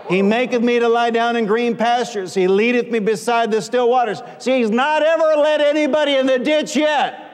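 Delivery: psalm proclaimed in a sustained preacher's cadence; forceful preaching. Real, not acted. Preacher expounding the psalm to congregation, forceful proclamation. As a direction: proclaim the verse to the whole room.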